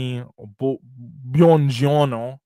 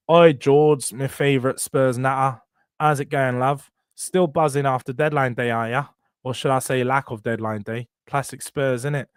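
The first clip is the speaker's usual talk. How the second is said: reading a fan's message in a put-on London accent; playful Cockney-ish take, light touch; London accent, hammed up a little; mock London accent. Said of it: "I've got the accent on point".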